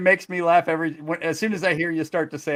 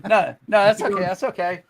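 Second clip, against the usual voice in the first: laughing; 5 semitones higher, 10 dB louder, much slower than usual. Real, not acted. Laughing reassurance.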